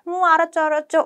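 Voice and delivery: put-on high, cooing comfort for a crying baby; soothing baby talk. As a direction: coo to calm the baby. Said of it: "우리 막 이런 말 하죠". (우는 아기를 달래는 아가체)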